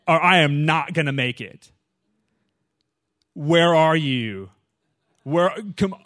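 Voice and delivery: weary runner begging the Lord; exhausted plea. Retold or imitated. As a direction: drag each word out like you're spent. Exhausted on mile three.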